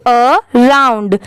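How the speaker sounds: अराउंड slowly, split as uh, then round; teacher's slow two-part uh-round for अराउंड; divided into syllables. Shown as a demonstration. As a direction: separate the opening uh in अराउंड. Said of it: "ऐसे divide करके पढ़ेंगे".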